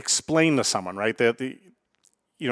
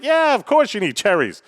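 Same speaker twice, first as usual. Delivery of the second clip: incredulous grandma; 8 semitones higher, 3 dB louder than usual. Acted. Grandma answering grandson about her recipe, mock incredulous. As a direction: answer as if it were blindingly obvious.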